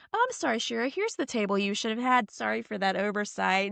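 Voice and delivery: a hint of icy fake-sweet Emily; sugary fake politeness. Emily to Shira at the party, faintly mock-sweet. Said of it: "is talking like this".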